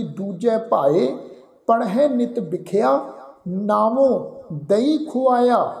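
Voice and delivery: careful, measured Gurbani recitation, ਦਈ said clearly; slow scripture recitation. Shown as a demonstration. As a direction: recite it slowly and carefully, like teaching the verse. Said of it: "ਫਿਰ ਦਸਵੀਂ ਜਗ੍ਹਾ ਅਸੀਂ ਪਾਠ ਉਚਾਰਨ ਕਰਦੇ ਹਾਂ ਜੀ". (ਹੌਲੀ ਤੇ ਸਾਫ਼ ਗੁਰਬਾਣੀ ਪਾਠ)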